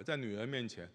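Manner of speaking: normal talking voice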